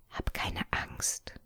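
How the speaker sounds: soft slow reassuring whisper. A narrator's reading. Sister whispers comfort to her frightened brother, whispered. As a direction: soothe him without a sound. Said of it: "flüsterte sie".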